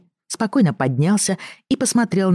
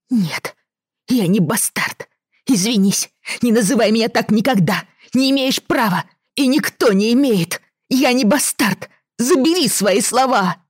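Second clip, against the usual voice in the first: put-on furious child; 7 semitones higher than usual. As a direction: shout the outrage like a wounded kid. Boy furious at insult.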